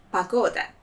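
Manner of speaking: pagoda said as pa-GO-da, stress on the middle; Russian word pagoda. Shown as a demonstration. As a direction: say pagoda with the first o as a. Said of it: "That means the weather".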